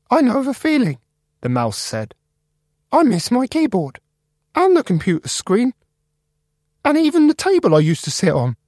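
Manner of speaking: very high, squeaky, eager mouse; Jerry the mouse. Acted. Computer mouse Jerry greeting the new guy, high and squeaky. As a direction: squeak it out friendly.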